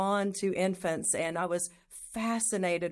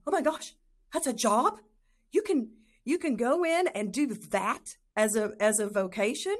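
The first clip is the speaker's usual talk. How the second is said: higher, delighted disbelief at a new idea; amazed discovery; 4 semitones higher than usual. Retold or imitated. Remembering seeing the nurse in the movie, higher amazed voice. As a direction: gasp it out like you just found your calling. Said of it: "and I thought".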